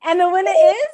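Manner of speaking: loud announcer build-up, rising on "is"; mock winner announcement. Host announces the game's winner to players, loud mock announcer. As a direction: tease the winner with a loud, hanging "is".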